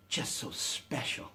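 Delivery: hushed, dreamy Utahn parody, drawn out; saintly Utah impression. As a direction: breathe it out slowly like a swooning saint. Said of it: "he began to impersonate Utahns".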